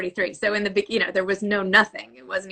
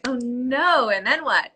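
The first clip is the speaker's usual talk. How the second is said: lightly dramatised "oh no", raised pitch; mock dismay; 4 semitones higher, slower than usual. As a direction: react like an invested reader. Acting out reader rooting for author.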